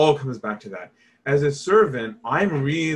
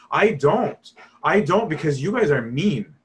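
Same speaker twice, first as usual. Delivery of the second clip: hurt; 3 semitones higher, 4 dB louder than usual. Retold or imitated. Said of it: "he's really hurt".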